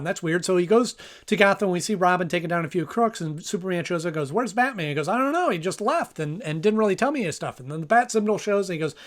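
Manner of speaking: hurried episode rundown; talking fast. Real, not acted. Host racing through a sixty-second episode rundown, talking fast. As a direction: rattle through the plot against a clock. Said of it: "I'm talking as fast as I can".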